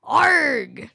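lightly voiced pirate growl; a hint of a pirate snarl. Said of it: "What's your voice".

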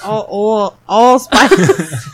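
loud laughing allspice. Real, not acted. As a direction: bursts out on allspice. Reading label through laughter.

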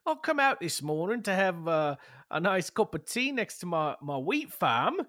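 a farmer finding his field wrecked, shouting; outraged farmer. Pretend. Farmer voiced in scene.

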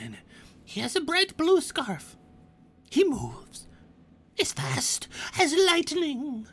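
high goblin NPC with whispered asides; goblin guide. Acted. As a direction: give directions like a lofty little goblin.

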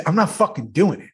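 lightly imitated stubborn refusal; Dayton. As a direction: play a balking colleague. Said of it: "You know the way he talks".

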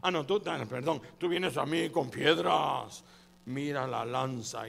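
slow, loud lumbering giant; slow booming giant. Acted. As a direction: boom out each word slowly like a brute. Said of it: "Y le digo".

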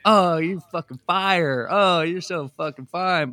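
lightly voiced fawning guys, drawn out; slow, stretched-out imitation of admirers; mock gushing. Imitating dudes chiming in on ex-wife's picture, mock gushing.

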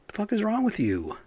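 high, indignant shout of disbelief; furious demand. Real, not acted. Cursing the cops who handcuffed a girl, high and furious. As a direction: fling it at the cops in real outrage. Outraged over child maced by police.

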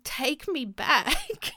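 high, slow, dreamy sigh of a caption; mock wistful caption. Mocking a nostalgic TikTok caption, slow and dreamy. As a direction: drawl it like a nostalgic post. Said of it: "I hate the caption".

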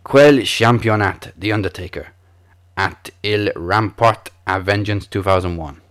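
amateur attempt at a French accent; best French accent. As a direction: muddle through in a French accent. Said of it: "let me do my best French accent".

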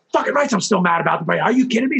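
mock-angry blow-up, pitch climbing at the end; retold outburst. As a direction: lose it on the coach, half in retelling. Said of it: "So I lost it on him".

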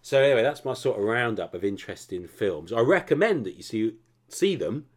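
slightly breathless after a long ramble; out of breath. Real, not acted. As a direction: talk a bit winded. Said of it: "I'm out of breath now".

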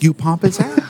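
proud extra. Retold or imitated. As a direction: brag about the yelled line. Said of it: "I'm the guy who yells".

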